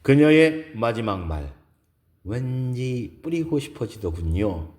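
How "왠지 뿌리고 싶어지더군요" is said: lightly voiced woman's quote; a hint of a feminine character voice; wistful woman character. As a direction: echo her last words gently. Narrator re-voices woman's last words.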